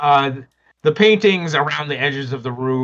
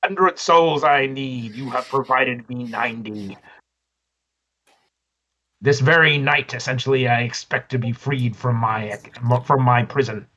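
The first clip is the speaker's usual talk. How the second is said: demon voice. Acted.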